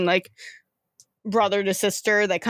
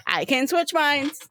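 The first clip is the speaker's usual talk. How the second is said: higher, quicker excited repeat; gleeful repeat; 5 semitones higher than usual. Acted. River repeating her trick to her brother, gleeful. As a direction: bounce it out with glee. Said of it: "She goes".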